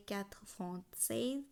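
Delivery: "quatre vingt seize" slowly, word by word; French pronunciation demo. Shown as a demonstration. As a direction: set "seize" apart with a lift. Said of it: "ছিয়ানব্বই উচ্চারণ হবে".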